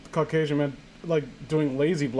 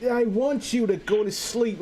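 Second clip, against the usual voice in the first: creepy killer voice; 6 semitones higher than usual. Acted. Reading the killer's line.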